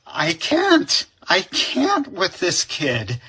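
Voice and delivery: high, fed-up exclamation; exasperated. Retold or imitated. Teacher giving up on the student, high and exasperated. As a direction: throw up your hands at the kid. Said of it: "And then I was like".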